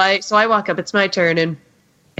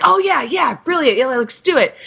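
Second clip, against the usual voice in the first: eager Sam; 6 semitones higher than usual. Retold or imitated. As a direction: jump at the idea like a kid. Sam voiced agreeing eagerly.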